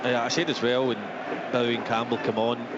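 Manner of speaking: usual speaking voice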